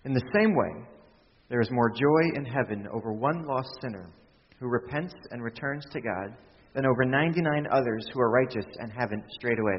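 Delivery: measured Bible reading; scripture reading. Acted. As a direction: read the verses out with weight.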